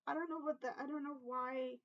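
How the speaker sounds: emotional. Real, not acted. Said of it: "I'm starting to get emotional".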